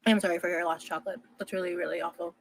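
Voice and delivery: crunching chips while talking; talking with mouth full. Real, not acted. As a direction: speak through a mouthful of chips. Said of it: "speaking with her mouth full".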